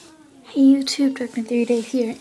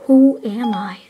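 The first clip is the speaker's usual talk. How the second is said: repeating to voice assistant; 4 dB louder, slower than usual. Real, not acted.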